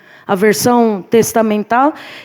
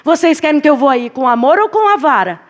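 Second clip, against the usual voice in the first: Paul pleading; 5 semitones higher than usual. Retold or imitated. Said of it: "Ele já tá perguntando".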